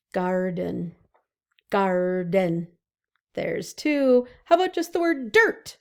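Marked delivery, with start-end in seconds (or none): 0.1-2.7 Garden split into gar and den; syllable split. Shown as a demonstration. Teacher to kids, counting syllables. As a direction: beat out Garden. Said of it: "What about the word garden?".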